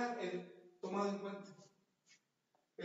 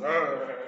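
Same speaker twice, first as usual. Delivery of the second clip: loud, low, drawn-out "ah" of fright; rough-men fright yell, hammed-up; mock fright scream; 4 semitones lower, 9 dB louder than usual. Big bearded disciples screaming from fright, loud low yell. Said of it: "gritando de susto".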